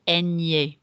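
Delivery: Ñ said as enye, the ny sound; Ñ pronounced enye; Spanish ñ sound. Shown as a demonstration. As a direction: model the letter Ñ as nasal ny. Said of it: "changes the pronunciation of that letter N".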